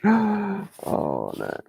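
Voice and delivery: sudden high oh no; a startled little yelp; surprised. Real, not acted. Nearly slips on the petal.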